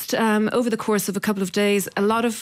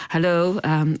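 put-on light Austrian accent on the phone; a hint of an Austrian caller; slower than usual. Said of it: "I'm trying to do the accent now".

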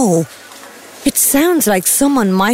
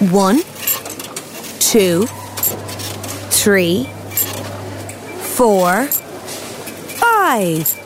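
put-on teaching a child to count; 3 semitones lower, 4 dB quieter, slower than usual. Shown as a demonstration. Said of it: "Can you count with me?".

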